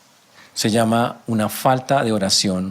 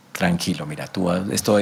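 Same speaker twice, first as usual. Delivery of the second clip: lower, lightly soothing reply; calm a worried friend, voice lower; mild reassurance; 5 semitones lower, 3 dB quieter than usual. Acted. Juan reassuring his worried friend, mildly calming.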